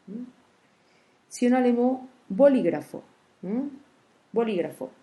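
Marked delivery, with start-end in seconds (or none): 2.3-3.0 bolígrafo with "lí" punched; stress on antepenultimate syllable. Shown as a demonstration. Teacher gives a proparoxytone example, stress on lí in bolígrafo. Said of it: "la syllabe li". 4.3-4.9 bolígrafo, stressing the second syllable "lí"; stress on antepenultimate syllable. Shown as a demonstration. Teacher repeats the example for listeners, stress on lí in bolígrafo. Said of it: "la syllabe li".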